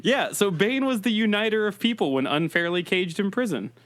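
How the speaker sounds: muffled Bane voice through cupped hands; hands cupped over mic. Acted. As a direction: talk into your hands, lightly as Bane. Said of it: "is me talking into my hands".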